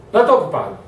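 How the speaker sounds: "estou ocupado" said curtly, dismissing; a mild cold brush-off, "Não, estou ocupado". Shown as a demonstration. Busy worker brushing off a colleague, curtly. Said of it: "Dependendo do tom que você usa".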